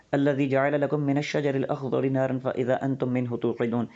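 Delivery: slow, measured recitation of the verse; Quranic recitation. Acted. Teacher reciting a verse to viewers, slow and measured. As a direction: intone the Arabic verse with care.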